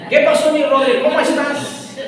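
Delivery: butter up the boss's son; sweet friendly greeting to the boss's son; sweetened tone. Retold or imitated. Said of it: "modular mi voz".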